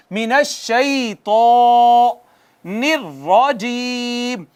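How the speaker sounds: slow chanted من الشیطان, heavy ط; Quranic recitation. Shown as a demonstration. Teacher models recitation, slow chant. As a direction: recite slowly, full-mouthed.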